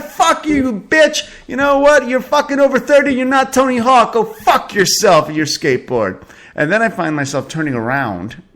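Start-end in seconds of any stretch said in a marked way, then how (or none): 0.0-6.2 high, loud furious mock yell; retold angry shouting. Yelling at the thirty-year-old skateboarder, loud and high. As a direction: tear into him, insulting.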